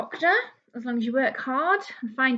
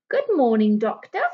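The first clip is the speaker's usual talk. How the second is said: receptionist greeting; 4 dB louder than usual. Acted. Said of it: "says the receptionist".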